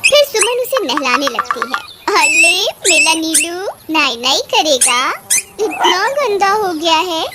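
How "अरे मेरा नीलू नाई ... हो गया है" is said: cooing to a pet; playful baby-talk voice. Acted. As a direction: coo babyishly as if bathing a little one. Baby-talking to pet while bathing.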